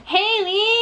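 big rising name call; excited announcement. Acted. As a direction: announce her like a star. Introducing niece with fanfare.

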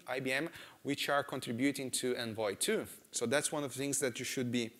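usual speaking voice

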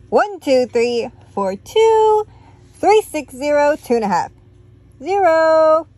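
shouting a jumbled count; loud off-beat count. Acted. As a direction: bark out the wrong numbers. Tacky's messy marching count.

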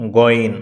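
গইন said cleanly from the throat; correct pronunciation. Shown as a demonstration. Teacher repeating the correct গইন for practice. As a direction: answer with a clear গইন. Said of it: "শুদ্ধ উচ্চারণ কি?".

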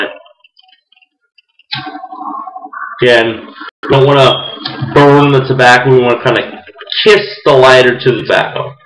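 talking around pipe stem; pipe in mouth. Real, not acted. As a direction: lips clenched on pipe. Seen 0: Pipe stem held between lips through most frames, lighting it.

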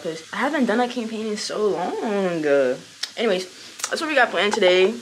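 raspy morning voice, worn out; hoarse as if after screaming at a concert. Real, not acted. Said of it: "I know my voice sound weird".

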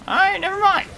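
very high squeaked give-up; squeaky never mind. Real, not acted. Gamer giving up on the dig spot, squeaky. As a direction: squeak it out in annoyance.

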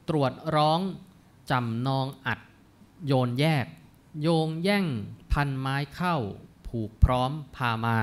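put-on measured, chanted reading of old Thai verse; verse recitation. Lecturer reciting classical verse to the class, measured. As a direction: read each phrase of the poem with care.

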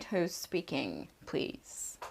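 soft slow model answer. Shown as a demonstration. Teacher softly giving the quiz answer. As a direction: say it quietly and slowly. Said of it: "Ne deriz o yüzden?".

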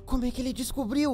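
muttered aside. Acted. Worried aside to himself.

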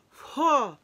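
sudden high, loud whoa; startled by the sourness; surprised whoa. Real, not acted. Reacting to sour candy.

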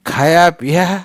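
loud, high squawking parrot. A narrator's reading. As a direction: screech it like a parrot. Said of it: "पुन्हा तोच आर ओरडला".

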